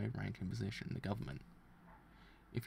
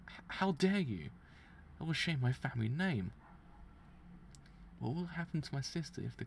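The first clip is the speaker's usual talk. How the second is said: angry; 4 semitones higher than usual. Acted. Insulted noble protests exile.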